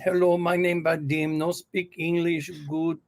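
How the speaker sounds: put-on accent with broken English; foreign accent. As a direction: fake a halting foreign accent to fob off a caller. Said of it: "I get my accent".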